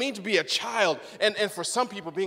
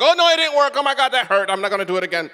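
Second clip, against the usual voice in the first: mock adult whining; 3 semitones higher, 5 dB louder, much faster than usual. An adult after one failed try whines loudly, mock-dramatic. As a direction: overplay the hurt grown-up who quits. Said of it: "and you're like".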